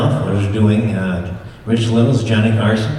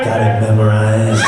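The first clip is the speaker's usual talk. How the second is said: Axel catchphrase. Pretend. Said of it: "an impression of Axel".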